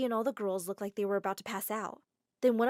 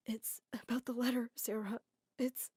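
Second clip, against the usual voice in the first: soft sad voice; 6 dB quieter than usual. Acted. Crying Adam speaks softly.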